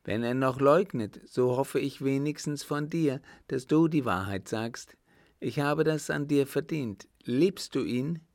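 acted severity, insistent and loud-edged; very stern. A narrator's reading. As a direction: demand the truth as a strict aunt. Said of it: "im strengsten Tone".

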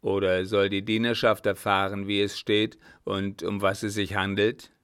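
firm, menacing question; threatening. Acted. Captain warning the baroness of exposure, threatening. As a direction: press the threat forcefully. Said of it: "mit drohender Stimme".

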